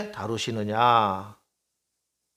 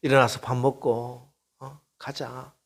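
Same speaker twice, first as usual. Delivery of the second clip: tender coaxing. Retold or imitated. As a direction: coax Elijah to get up tenderly. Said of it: "천사를 보내서 만져주시고". (엘리야를 다정하게 달래며)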